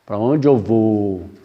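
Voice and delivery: slow, bewildered voice of a newly dead woman; lost and worried. Retold or imitated. Dead woman asking where she goes, slow and worried. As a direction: asks where to go, slow and unsure. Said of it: "ela vai".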